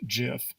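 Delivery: gif said as "jif"; soft G. Shown as a demonstration. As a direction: say gif with a J sound. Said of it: "the proper pronunciation for this word".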